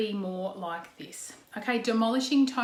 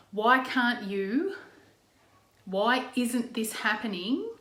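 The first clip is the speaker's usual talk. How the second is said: demolishing accusing tone; slower than usual. Shown as a demonstration. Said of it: "the ones that you might be using are".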